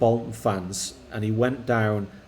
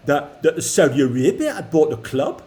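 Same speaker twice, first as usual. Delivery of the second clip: put-on a light, amateur Geordie accent; a son asks his dad for a Geordie accent, mock Geordie lad. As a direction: put on a hammed-up Geordie lad's voice. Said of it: "that accent went really bad at the end".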